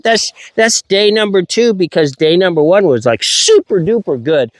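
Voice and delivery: thrilled. Real, not acted. Dog fetches on day two.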